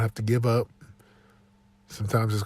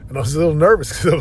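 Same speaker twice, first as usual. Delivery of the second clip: nervous laugh; 5 semitones higher, 8 dB louder, much faster than usual. Real, not acted. Nervous laugh telling of morning.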